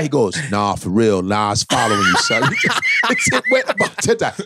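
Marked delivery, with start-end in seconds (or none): 0.5-2.4 low troll voice. Retold or imitated. Troll insisting.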